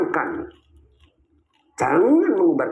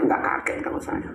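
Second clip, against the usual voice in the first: whispered aside; 6 dB quieter than usual. Real, not acted. Emphatic aside.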